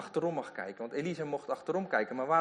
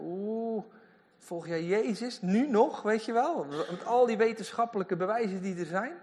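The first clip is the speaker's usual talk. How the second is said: higher, teasing sceptic voice; mocking sceptic; 7 semitones higher than usual. Preacher voicing a sceptic teasing a believer. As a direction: sneer lightly as a doubting neighbour. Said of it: "Zoals mensen dat ook tegen jou zeggen".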